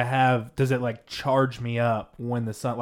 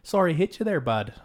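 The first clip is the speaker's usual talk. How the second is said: put-on light Canadian accent, starting higher; 3 semitones higher than usual. Asked by a friend to do Canadian, mock Canadian accent. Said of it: "That was a good Canadian accent".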